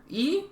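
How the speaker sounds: the Y said as a pure vowel I, drawn out. Shown as a demonstration. Lesson on allowed sounds of Y, pronounced I. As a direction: say I like a long 'ee' for the letter Y. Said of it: "de Y puede ser".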